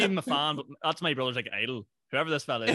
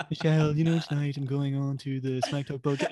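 put-on accent of a singer. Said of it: "I really want to attempt the accent".

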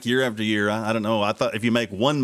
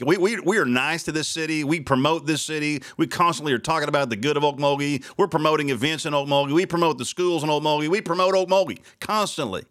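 venting his anger at the city; pissed off; 3 semitones higher than usual. Real, not acted. Host venting at the city over the fireworks broadcast, angry. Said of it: "Well, I am pissed off".

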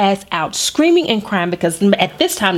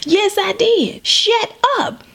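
sassy comeback; 10 semitones higher, much slower than usual. Retold or imitated. Snapping back at kid.

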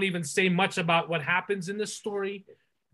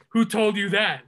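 slightly raised mock movie question; mocking trailer line; 3 semitones higher, 4 dB louder than usual. Podcaster quoting the trailer he's been mocking, mock-challenging. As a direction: lightly send up the trailer's challenge. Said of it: "we've been mocking it".

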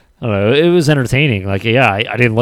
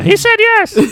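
zombie voice; 6 dB louder than usual. Retold or imitated. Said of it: "he sounded like a damn zombie".

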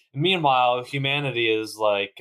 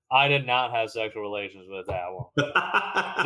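Clinton impression; 4 semitones lower than usual. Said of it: "this is the one impression".

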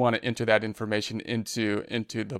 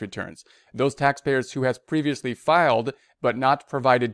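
measured read-aloud of an official notice; news read. Real, not acted. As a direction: read the bulletin out formally. Reads a written notice aloud.

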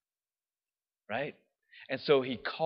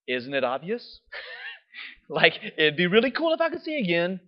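sarcastic; 3 semitones higher than usual. Retold or imitated. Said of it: "he could have been pretty sarcastic".

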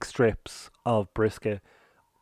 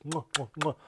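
big wet smooch; 4 semitones higher, 8 dB quieter than usual. Shown as a demonstration. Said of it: "Multiple chef kisses to this place".

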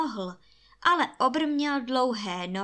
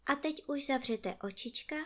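soft, higher-pitched lullaby tone; bedtime goodnight; 4 semitones higher, 7 dB quieter, faster than usual. Acted. Storyteller tells children to close their eyes, soft bedtime voice. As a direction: speak softly to little ones going to sleep.

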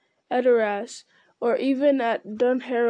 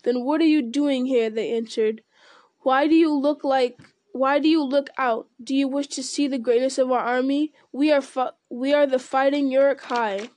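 jeering orcs; 2 semitones higher, 4 dB louder than usual. Acted. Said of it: "The orcs yelled and jeered".

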